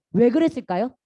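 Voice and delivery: ordinary delivery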